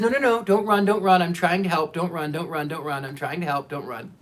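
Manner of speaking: mock urgent calling-after that tails off; urgent retold plea. Healer calling after a fleeing woman, urgent then fading.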